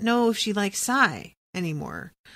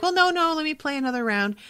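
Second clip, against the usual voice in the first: retold protest; 8 semitones higher, faster than usual. Retells gambler refusing to stop.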